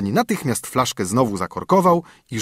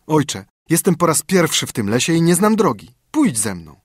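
put-on higher young son voice, coaxing; pleading son; 6 semitones higher, 4 dB louder than usual. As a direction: talk father into coming along.

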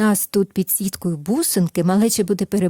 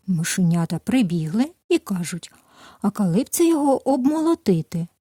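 gentle storyteller voice, lively at the quotes; reading a fairy tale to children. Acted. Narrator reads the tale to toddlers, gentle storytelling. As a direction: tell it like a bedtime tale for little ones.

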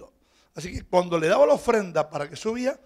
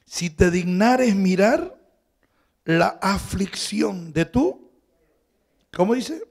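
fervent prayer; 6 semitones higher, 11 dB louder, slower than usual. Acted. Preacher building Hannah's prayer.

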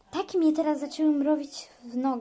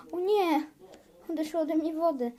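higher, fast alarmed cry; 4 semitones higher than usual. Pretend. Mother whose waters broke, alarmed and rushed. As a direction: panic as the waters break.

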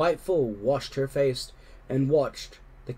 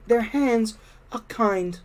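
tender whisper; 9 semitones higher, 3 dB louder than usual. A narrator's reading. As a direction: say it lovingly, in awe. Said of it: "Harriet whispered".

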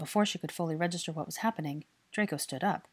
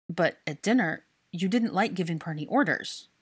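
confused; 5 dB louder than usual. Acted. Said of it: "Draco said in confusion".

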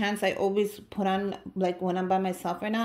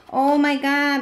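louder, higher delighted gasp; excited squeal; 6 semitones higher, 8 dB louder, slower than usual. Real, not acted. Finding the rolling pin, excited squeal. Unwrapping a handmade gift.

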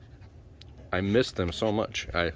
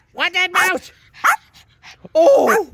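high excited squeal; 9 dB louder, much slower than usual. Real, not acted. Excited high call to dog.

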